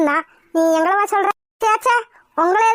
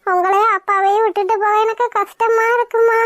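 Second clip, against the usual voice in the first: tearful pleading. Acted. Daughter pleading with mother not to marry, tearfully. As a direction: plead through acted tears, dragging the words. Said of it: "இதுக்கு தான் அழுதையா?".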